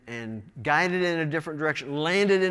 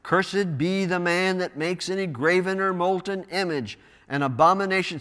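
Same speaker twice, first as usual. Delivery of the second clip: loud voice; 2 semitones higher than usual. Acted. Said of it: "with a loud voice".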